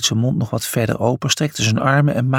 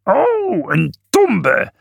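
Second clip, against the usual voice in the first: flat; 8 semitones higher, much slower than usual. A narrator's reading. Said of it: "herhaalde Felix vlak".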